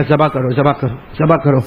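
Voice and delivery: a low, commanding voice of God; divine command. Acted. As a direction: issue the command gravely. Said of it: "اللہ نے کہا".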